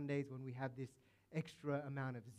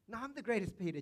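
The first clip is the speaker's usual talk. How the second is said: higher, louder whiny boast; childish squabble; 8 semitones higher, 5 dB louder, faster than usual. Retold or imitated. One disciple snapping back at another in the argument, in a whiny childish boast. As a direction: squabble like a kid over a toy.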